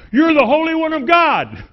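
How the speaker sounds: high, loud shriek of a cornered demon; a preacher voicing the demon's frantic shriek at Jesus. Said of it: "and shrieks out".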